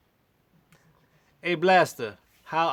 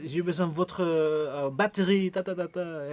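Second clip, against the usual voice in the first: halting French; 3 semitones higher than usual. Retold or imitated. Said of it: "the best ability of my French".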